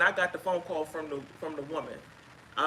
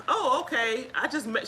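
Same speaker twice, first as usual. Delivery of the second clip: higher, airy mock caller voice; imitating the caller; 6 semitones higher than usual. Retelling what the unsuspecting caller said, higher voice. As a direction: play her light and unaware, pitched up. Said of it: "she's like".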